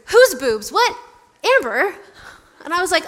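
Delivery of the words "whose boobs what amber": high, loud mock-shocked questions; shocked disbelief. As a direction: react aghast to a colleague's text. Acting out colleague's shocked text reply.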